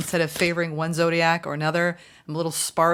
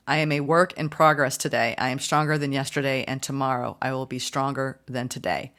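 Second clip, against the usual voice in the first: affirmation read; 4 semitones lower than usual. Shown as a demonstration. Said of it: "recite the following affirmation".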